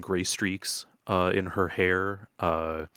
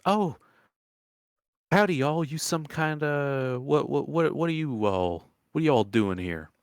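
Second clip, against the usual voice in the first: folksy country woman, higher at first; old swamp woman, puzzled; 7 semitones higher than usual. Acted. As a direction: greet strangers with a baffled country welcome.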